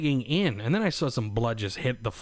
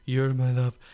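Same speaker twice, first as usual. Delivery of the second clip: tender to wife. Retold or imitated. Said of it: "the typical YouTube stuff".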